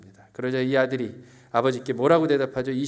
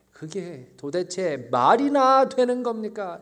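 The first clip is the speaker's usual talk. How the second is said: slow, bitter, resentful complaint; indignant outburst; slower than usual. Acted. A hint of an indignant son protesting to his father. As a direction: pour out bitterness slowly. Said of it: "울분에 차서".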